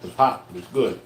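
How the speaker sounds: talking while chewing hot fish; words round a bite of food; mouth full. Real, not acted. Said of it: "eating with my mouth full".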